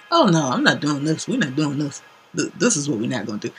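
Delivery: laughing loud no I'm not; laughing refusal. Retold or imitated. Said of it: "And I'm like".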